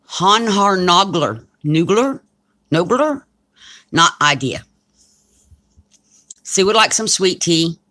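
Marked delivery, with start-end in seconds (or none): 0.1-3.2 Hanhar Nogler tried slowly, then Nugler and a high questioning Nogler; unsure pronunciation. Real, not acted. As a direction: sound out Hanhar Nogler haltingly. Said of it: "major mess up what you said".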